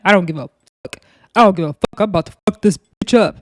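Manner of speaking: lightly imitated tough dude voice; dude-like bass. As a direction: put a hint of manly bass into it. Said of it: "she sounds like a dude".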